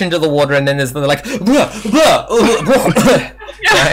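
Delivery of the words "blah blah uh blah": high, spluttering gags; splashing spluttering. Acted. Player acts out surfacing from the water, spluttering.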